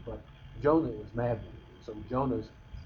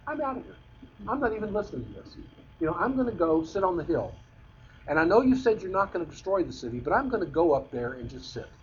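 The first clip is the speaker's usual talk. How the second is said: much higher, quick, sulky brush-off; huffy walkout; 5 semitones higher than usual. Retold or imitated. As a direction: play Jonah storming off in a huff. Jonah storms off from God.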